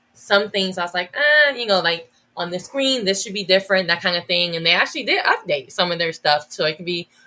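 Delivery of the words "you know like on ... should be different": plain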